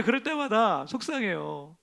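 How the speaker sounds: slow, rueful lament; sad sigh. Real, not acted. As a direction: let it sink in slowly. Same words, slowed and softer.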